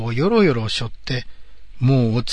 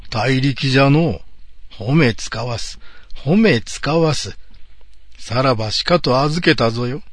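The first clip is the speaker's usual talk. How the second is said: put-on pompous old samurai praising; grand lordly approval; creaky wise old man.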